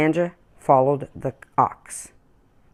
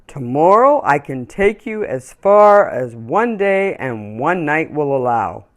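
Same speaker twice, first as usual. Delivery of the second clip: gentle horse; 4 dB louder than usual. Acted. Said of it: "he offered".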